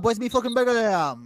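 mock Glaswegian accent, hammed-up; a light Glaswegian accent. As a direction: put on a rough Glaswegian accent.

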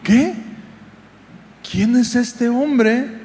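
slow, wondering question, starting high; amazed disciples. Acted. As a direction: act out stunned disbelief, drawing the words out. Disciples amazed after the calm. (asombro incrédulo y pausado)

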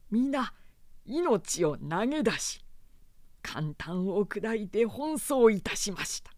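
loyal retainer, heated and loud; impassioned retainer. Acted. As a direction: argue his case with passion. Retainer argues his case.

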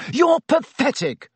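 high furious yell. A narrator's reading. Harry yelling at Snape in the shrieking house, furious yell. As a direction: hurl it at him, full voice. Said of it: "Harry yelled".

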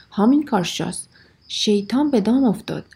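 loud warning shout at the window. Acted. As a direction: call out the alarm loudly. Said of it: "فریاد زد". (فریاد هشدار بلند)

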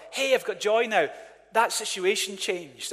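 a touch of put-on excitement; mock joy. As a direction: imitate someone pleased with good news. Voicing people glad about circumstances.

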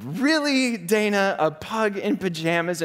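can't believe she's crying over this; husband baffled by his crying wife; incredulous. Retold or imitated.

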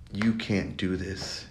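slow, soft self-doubt whisper-like; a small voice in your head saying it, slowly; little doubting voice. Retold or imitated. Inner voice of doubt telling him, slow and soft. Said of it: "a little voice in your head".

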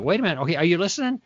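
playful quick check-in; joking, light and fast. Shown as a demonstration. To the interrupting skeptic, joking and quick. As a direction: tease them gently to calm things down. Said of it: "I'll even joke with them".

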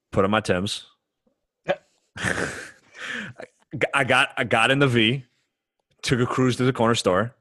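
put-on New York accent, item by item; deadpan mock New York bro; stereotypical New York. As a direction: play up the stereotypical New Yorker. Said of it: "pretend to talk as stereotypical New York as possible".

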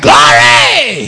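a loud, high burst of Glory; joyful exclamation. Retold or imitated. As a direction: greet him with joyful praise. Preacher greets sad man joyfully.

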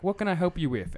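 a hint of a cheery phone bot; mock automated helpline voice; robot voice. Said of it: "those automated voices".

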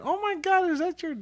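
put-on shocked girl. Girl in the story reacting to the joke, mock shocked squeal. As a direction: play a shocked girl gasping it out.

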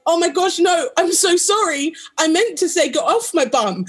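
high, rushed embarrassed apology; flustered apology. Retold or imitated. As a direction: backpedal in a panic. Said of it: "I was like".

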